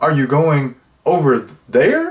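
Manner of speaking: wooden, robotic, stilted reading with misplaced stress. Imitating the terrible acting in a show, mock robotic, stilted acting. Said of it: "they were robotic and they would put like the emphasis on the wrong word".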